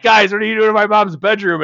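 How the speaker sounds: high, loud put-on girl voice; mock Brittany. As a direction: play the annoyed host catching them. Brittany quoted walking in.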